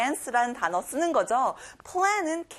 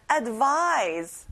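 teacher's model Advise, "vise" stronger than "Ad"; stress on vise. Shown as a demonstration. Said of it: "vise의 강세를 꼭 넣어보세요".

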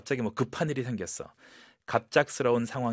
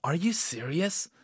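smiling; 6 semitones higher, much slower than usual. Shown as a demonstration. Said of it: "약간 웃으면서".

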